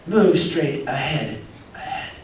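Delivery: a hint of a GPS voice, drawn out; mock female GPS voice. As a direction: read it like a sat-nav lady. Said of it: "It's got a female voice".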